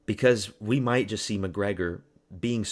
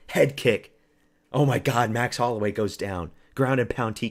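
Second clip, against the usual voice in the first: mock hype call; 2 semitones higher, 4 dB louder than usual. Imagining fight play-by-play.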